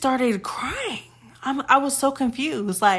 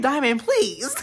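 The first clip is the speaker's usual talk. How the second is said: cracking up while you call her name; laughing plea; 2 semitones higher, slower than usual. Retold or imitated. Laughing at Diamond over the butter knife. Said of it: "And I'm like".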